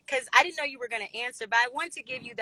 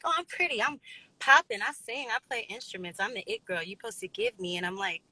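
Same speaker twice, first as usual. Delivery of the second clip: out of breath; 2 semitones lower than usual. Real, not acted. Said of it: "Sorry if I'm out of breath".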